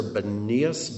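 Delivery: Banias as buh-NEE-us, stress in the middle; second pronunciation variant. Shown as a demonstration. Teacher offering another way to say the name, Banias stressed on NEE. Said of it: "not sure how it's pronounced".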